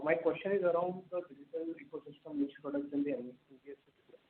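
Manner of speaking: very soft, faint question; barely audible. Real, not acted. Analyst asking company about products, barely audible. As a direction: ask it far too quietly to carry. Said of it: "You're not audible".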